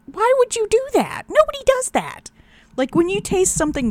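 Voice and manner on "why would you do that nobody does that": high, baffled disbelief; incredulous. Retold or imitated. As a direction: ask in total disbelief. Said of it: "He's like".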